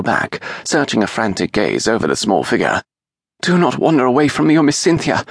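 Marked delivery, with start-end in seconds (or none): 3.4-5.2 fast, higher stern rebuke; stern demand. A narrator's reading. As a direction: scold the child sharply. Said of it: "she demanded".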